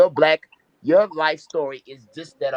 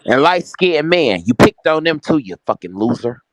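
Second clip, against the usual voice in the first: angry heckle; 6 dB louder than usual. Real, not acted. Heckling insult during heated debate.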